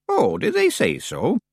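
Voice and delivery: put-on high, slow, delighted old witch; flattered and thrilled old woman. A narrator's reading. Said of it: "looking delighted".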